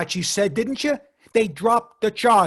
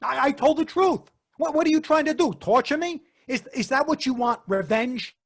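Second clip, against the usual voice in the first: stammering, pitch climbing; cornered and cracking; rising panic; 2 semitones higher than usual. Acted. Cornered suspect cracking under pressure.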